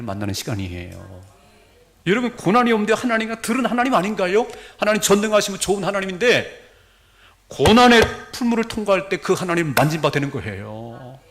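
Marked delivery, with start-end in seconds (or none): 2.1-11.2 high, loud, driving pulpit voice; forceful preaching. Real, not acted. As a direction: press the point on the congregation at full force. (높고 큰 목소리로 열변을 토하는 설교)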